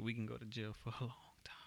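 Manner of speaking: hushed, breathy warning; whispering. Real, not acted. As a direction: whisper it like a secret. Serious warning among friends.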